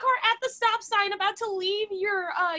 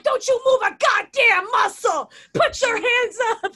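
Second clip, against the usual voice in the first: loud, laughing fake-cop order; mock cop shout; 7 dB louder than usual. On the car roof with a finger gun, mock cop shout. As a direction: bark it like a TV cop, half laughing.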